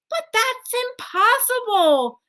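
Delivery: put-on high, amazed child's voice; a boy who can't believe it; astonished child. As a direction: gasp it out in wonder. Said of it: "staring at his grandfather".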